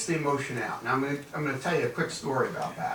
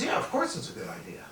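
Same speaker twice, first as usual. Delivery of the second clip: whispered, lower, grudging admission; 9 semitones lower, 6 dB quieter, faster than usual. Retold or imitated. Collections manager grudgingly admitting to his boss, whispered. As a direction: mutter it under your breath, beaten.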